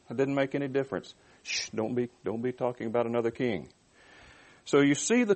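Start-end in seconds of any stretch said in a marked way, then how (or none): 1.4-3.7 soft, hushed warning; quiet cautioning, as if overheard; shushing. Acted. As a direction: hush them up nervously. Acted shushing of talk of king.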